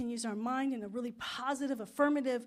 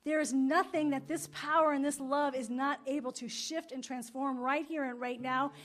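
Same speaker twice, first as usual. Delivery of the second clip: affirmative prayer; 3 dB louder than usual. Acted. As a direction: pray it out, rising with conviction.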